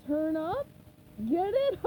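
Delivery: chuckling at own joke. A narrator's reading. Sandy's pun.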